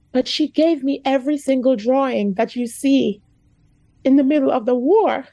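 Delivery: emotional, nearly breaking; real emotion. Real, not acted. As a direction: push through a lump in the throat. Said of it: "I'm sorry. I get so emotional".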